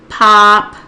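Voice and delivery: POPCORN stretched into two slow, separated syllables; popcorn said slowly. Acted. Tutor playing a child counting syllables, POPCORN slow and split. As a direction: say "popcorn" as POP, long pause, CORN. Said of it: "the child says it slowly".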